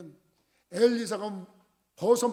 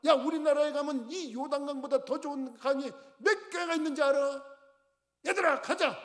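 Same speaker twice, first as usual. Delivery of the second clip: higher, huffy boasting rant; angry storming off; 6 semitones higher than usual. Acted. General storming off from Elisha, higher angry shout. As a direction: end it by storming away. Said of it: "그러고서 화를 냈어요".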